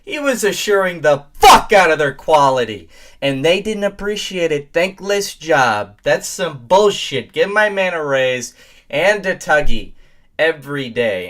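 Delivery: loud, high, worked-up outburst; high-pitched tirade, hitting the words hard; indignant rant. Real, not acted. Mock-indignant rant defending the man.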